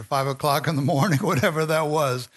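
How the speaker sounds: light laugh running through the words; chuckling aside. Real, not acted. Preacher to congregation on how early Jesus rose, chuckling. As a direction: chuckle while brushing off the detail.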